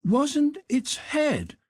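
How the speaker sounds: lightly voiced curious servant, drawn out; Conseil voice. A narrator's reading. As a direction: servant asking, high and slow.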